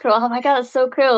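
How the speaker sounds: lightly imitated American accent, gushing; a hint of a mock American accent; bad American accent. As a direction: mimic an impressed American, badly. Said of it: "that's my bad accent".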